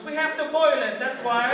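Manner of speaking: mock motherly insistence; insistent mother. Voicing mother insisting on remedy.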